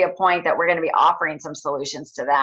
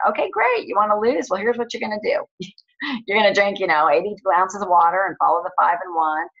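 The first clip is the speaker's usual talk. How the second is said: pushy coach; 3 semitones higher than usual. Retold or imitated. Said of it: "better than us saying".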